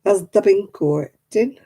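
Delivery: "bin" for "been" in broad Oldham; light Oldham dialect; Oldham accent. Shown as a demonstration. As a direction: drop into Oldham dialect for "Has the bin courting". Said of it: "They say things like".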